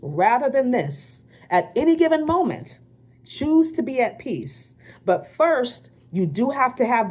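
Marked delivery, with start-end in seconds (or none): 0.0-4.8 slow, calm reading of a quote; a gentle, unhurried recital; calm quoted affirmation. Shown as a demonstration. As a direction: let the affirmation land slowly. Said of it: "a line in A Course in Miracles that says".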